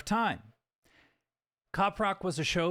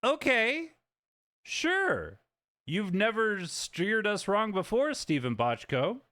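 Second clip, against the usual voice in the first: executive; 4 semitones higher, slower than usual. Retold or imitated. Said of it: "And the executive was like".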